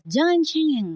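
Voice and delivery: mock parental scolding. Parent tells a crying child off, imitated high scolding. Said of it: "kalau nangis dimarahin orang tua".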